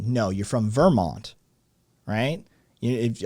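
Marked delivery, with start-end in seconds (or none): 0.3-1.3 Vermont with the first syllable leaned on, VER-mont; stress on first syllable. Shown as a demonstration. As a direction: lean hard on the Ver of Vermont. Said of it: "you need to lean on the first syllable".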